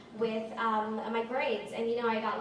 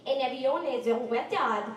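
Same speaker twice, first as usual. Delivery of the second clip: mock French speech, loud and emphatic; 7 dB louder than usual. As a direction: imitate a French woman talking loudly. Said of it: "she starts speaking in French".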